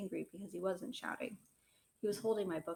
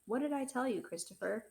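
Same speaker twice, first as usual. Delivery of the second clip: higher, louder demand; much louder; 4 semitones higher than usual. Acted. Father confronts Christopher about his promise, louder and sharper. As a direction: raise the voice to demand an answer. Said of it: "This was much louder".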